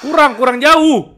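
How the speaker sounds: high, drawn-out call. Real, not acted. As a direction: call slowly across a distance. Berseru agar Bambang lebih jauh. (berseru panjang dengan nada tinggi)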